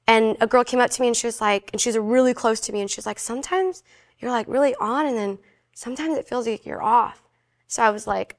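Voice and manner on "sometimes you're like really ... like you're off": softly voiced retold confidence; tactful confiding. Friend confides doubt, retold.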